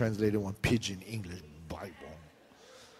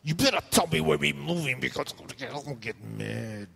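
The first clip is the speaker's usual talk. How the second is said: auntie voice, lightly done. Retold or imitated. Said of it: "One of the aunties told me".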